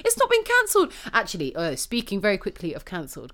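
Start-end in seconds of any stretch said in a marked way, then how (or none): 0.0-0.9 higher and louder, angry outburst; real anger. Real, not acted. Podcaster fuming that the show was not cancelled, angry outburst. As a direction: let the anger burst out on "not". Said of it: "I'm so angry".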